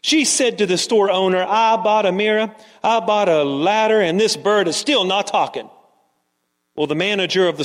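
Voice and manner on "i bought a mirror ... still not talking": mild customer complaint, listing each grievance; complaining. Acted. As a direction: complain with light insistence. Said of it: "she was complaining".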